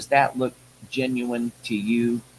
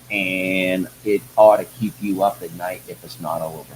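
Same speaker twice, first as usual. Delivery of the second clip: ranting; 6 semitones lower than usual. Real, not acted. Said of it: "Folks, that was a rant".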